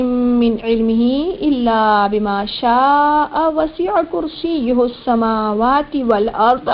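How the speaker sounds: slow, drawn-out chanted recitation; Quran recitation. Shown as a demonstration. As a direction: chant each word long and measured.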